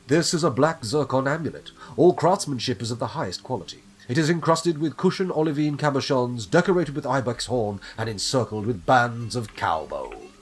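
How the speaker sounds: punchy, declaimed catalogue reading; item description read-out. Acted. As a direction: announce each item with emphasis.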